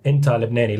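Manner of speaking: Arabic pronunciation of "Inta Lebanese". Shown as a demonstration. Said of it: "Can you sample the Lebanese?".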